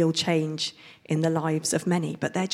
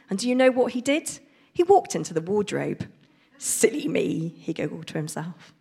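storybook reading voice; reading to children. Acted. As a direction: read it like a picture book to kids. Reads picture book aloud.

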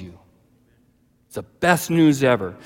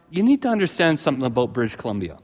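ordinary delivery

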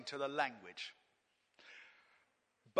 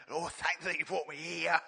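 imitated cockney. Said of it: "he was praying very".

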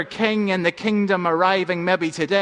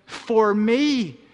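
excited thought; 4 semitones higher than usual. Acted. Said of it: "he thought with excitement".

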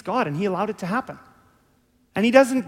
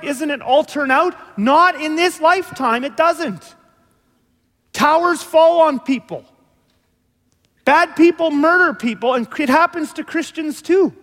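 loud, higher preaching; preaching at full force; 6 semitones higher, 5 dB louder than usual. Acted. Pastor to his church, loud fervent preaching. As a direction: pound it home to the congregation.

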